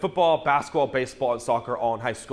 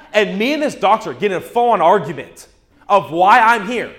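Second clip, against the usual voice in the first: emphatic telling; 5 semitones higher, 8 dB louder than usual. Real, not acted. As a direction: stress how absurd the fight was. Telling of the argument.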